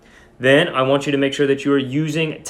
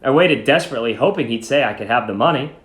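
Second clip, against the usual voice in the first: steady storytelling read to the class; story read-aloud. Acted. Teacher reading a short story aloud to her class, storytelling voice. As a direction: read the story out to students, evenly paced.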